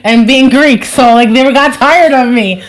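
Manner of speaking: real amused laugh in the voice; laughing while talking. Real, not acted. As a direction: talk through your own laughter. Laughing at her own habit.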